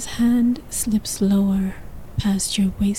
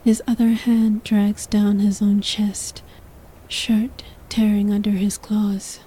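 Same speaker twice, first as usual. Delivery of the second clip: whispered narration. A narrator's reading. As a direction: whisper the story close to the mic. Whispered throughout.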